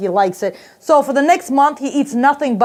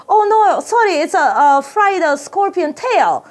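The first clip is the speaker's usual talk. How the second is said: mock apologetic server, pitched up; higher voice, drawn out on the dish; restaurant server; 7 semitones higher, slower than usual. Server breaking bad news to a hungry diner, mock apology. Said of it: "And they're like".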